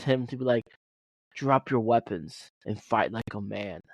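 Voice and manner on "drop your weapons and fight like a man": slow, weak Chinese accent impression; lightly put-on Chinese accent, said slowly. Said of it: "in his funny, like, Chinese accent".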